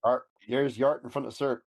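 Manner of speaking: broad West Country accent on Yart and Cert. Shown as a demonstration. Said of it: "comes out really bad in a West Country accent".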